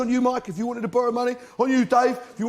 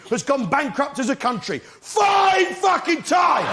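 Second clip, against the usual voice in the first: mock outrage; 5 semitones higher than usual. Ranting about Greece's defaults.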